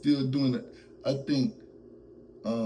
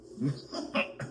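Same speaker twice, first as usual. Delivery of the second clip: real giggle breaking character; breaking into laughter; 7 semitones higher, 4 dB quieter than usual. Real, not acted. Host trying to get through the impression, helpless laugh. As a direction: crack up at your own impression. Cracks up during own impression.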